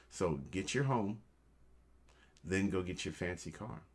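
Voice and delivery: ordinary delivery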